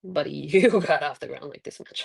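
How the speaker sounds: imitated ribbing broken by chuckles; laughing dad teasing. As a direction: tease through small laughs, as dad. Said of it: "and he'd laugh, and like".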